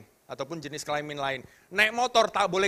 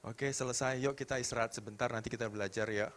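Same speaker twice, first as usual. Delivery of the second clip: gentle reassurance; 4 semitones lower, 6 dB quieter than usual. Retold or imitated. Father gently replies to child.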